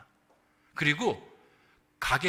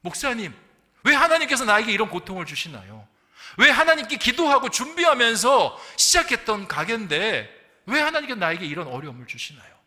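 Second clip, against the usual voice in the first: louder, pleading-angry questions to God; retold angry outcry; 6 semitones higher, 9 dB louder than usual. Deacon crying out angrily to his pastor, retold with mock fury. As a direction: hit each 왜 like a protest. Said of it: "분노를 막 하기 시작합니다".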